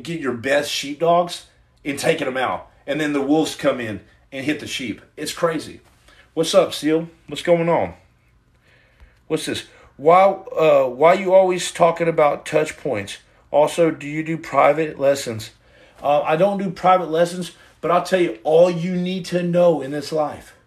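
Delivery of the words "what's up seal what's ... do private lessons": fan voice. Pretend. Voiced viewer asking question.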